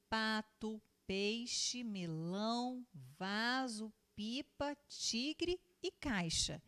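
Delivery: slow, deliberate reading, word by word; word-list reading. Shown as a demonstration. Teacher reading example words with the pupils, slow and deliberate. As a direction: read each word out slowly and clearly.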